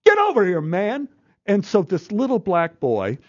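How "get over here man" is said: much higher, calling out across a crowd; impatient yell. Retold or imitated. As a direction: shout the kid's name to hurry him. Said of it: "the A D came over and go".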